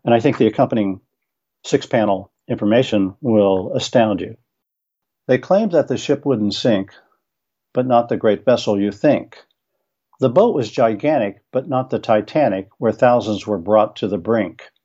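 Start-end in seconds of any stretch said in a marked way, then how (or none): 5.3-14.7 rhythmic verse reading with a bouncy beat; poem read aloud to listeners; limerick recital. Shown as a demonstration. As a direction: read the limerick with a steady gallop. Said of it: "here is the poem".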